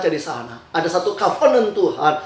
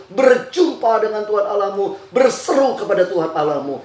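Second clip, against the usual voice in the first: emphatic preaching. Real, not acted.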